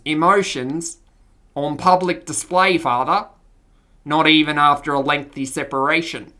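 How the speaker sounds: Australian nobleman; Australian accent. Acted. Noble son addressing his father, Australian accent. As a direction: speak formally with an Australian accent. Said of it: "Stefan's voice was Australian".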